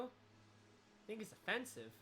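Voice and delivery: drawn-out, quiet mock objection; slow. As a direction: stretch it slowly and softly. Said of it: "I'll use my regular voice".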